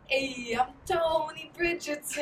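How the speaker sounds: slow, hammed-up Italian accent. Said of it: "my Italian accent".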